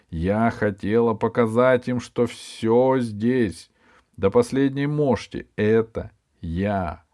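put-on a wise old snake tells her tale; talking snake.

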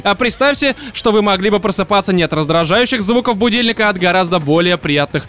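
smooth advert voiceover read. Acted. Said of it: "далее я буду читать тем же вот голосом, как войсовер".

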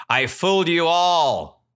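high, crowing acted boast; gloating shepherd boy. Shepherd boy to the villagers he fooled, gloating. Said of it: "laughed loudly".

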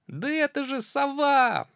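high, loud cry; mouse shouts. Acted. Mouse calling out to the owl, loud and high. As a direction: call out to the owl. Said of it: "мышонок закричал".

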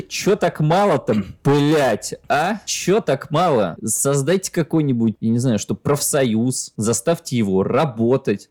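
echoey room. Real, not acted. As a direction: sounds like in an echoing room. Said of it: "какое эхо-то в этой комнате".

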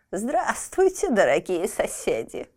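put-on old woman, slow creaky greeting. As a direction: creak it like a tiny old crone. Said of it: "проговорила старушка скрипучим голосом".

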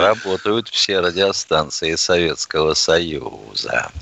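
slow solemn Soviet radio announcer; booming solemn state announcer. Pretend. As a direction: proclaim it like a wartime bulletin. Classic Soviet radio opening.

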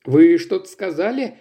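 put-on old man voice. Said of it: "слабый старческий голос".

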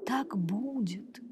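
slow, distant echoing voice. A narrator's reading. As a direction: sound like a mountain echo. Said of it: "послушное эхо повторило его слова".

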